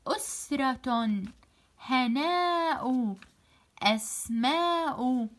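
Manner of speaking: "أسرة، هناء، أسماء" slow, syllable by syllable; slow syllabified "أسرة، هناء، أسماء"; broken into syllables. Shown as a demonstration. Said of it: "أحلل الكلمات إلى مقاطع".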